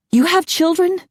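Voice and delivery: high, disbelieving, stress on have; officer stunned to hear of children; shocked. A narrator's reading. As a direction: ask in dismay.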